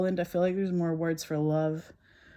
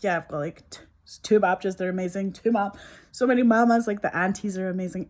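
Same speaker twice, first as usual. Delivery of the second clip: gushing; 2 semitones higher, 5 dB louder than usual. Retold or imitated. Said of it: "everyone who's Polish is like".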